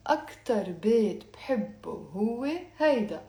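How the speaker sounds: brisk run through the sentence. Shown as a demonstration. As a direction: say the practised sentence quickly. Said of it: "I'm saying it faster now".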